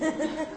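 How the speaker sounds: quick high giggle at himself; a real little chuckle; short high laugh. Real, not acted. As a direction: burst out laughing at the memory. Laughs at his own fake claim.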